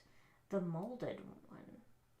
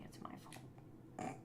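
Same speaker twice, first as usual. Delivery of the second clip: a slow, much softer grudging aside; grudging mutter; 11 dB quieter, slower than usual. Shown as a demonstration. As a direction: mumble it half to yourself, grudgingly. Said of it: "okay, I'm building it incorrectly".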